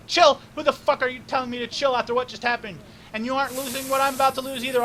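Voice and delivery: loud, high, furious rant; furious shout. Acted. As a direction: explode at him for saying chill. Wu furious at being told chill.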